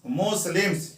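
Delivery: मुस्लिम्स sounded out as मुस-लिम्स; two syllables. Shown as a demonstration. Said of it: "दो syllables है".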